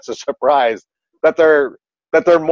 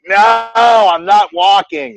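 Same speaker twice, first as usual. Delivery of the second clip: put-on stubborn kid; 7 semitones higher, 3 dB louder, much slower than usual. Stubborn kid voiced refusing.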